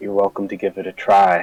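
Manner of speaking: low whispering. Voicing Vivian answering a taunting voice in her head: whispering. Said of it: "Vivian just kind of whispers back".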